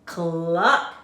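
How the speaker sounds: loud clucking hen. A narrator's reading. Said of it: "said the hens".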